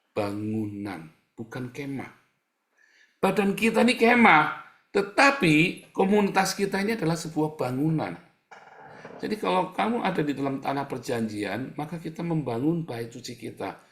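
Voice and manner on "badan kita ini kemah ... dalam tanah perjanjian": high, loud preaching cry; preaching shout. Acted. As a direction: proclaim it to the back row. Preacher shouts the key point. (seruan khotbah yang lantang dan tinggi)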